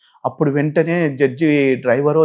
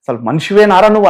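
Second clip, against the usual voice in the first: higher, louder mock rebuke from the bench; retold angry rebuke; 5 semitones higher, 4 dB louder than usual. Judge berating the accused pastor, mock angry shout. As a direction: imitate the judge snapping his contempt.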